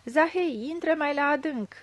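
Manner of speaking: loud urging command; urging shout. A narrator's reading. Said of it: "îndemna Panteră".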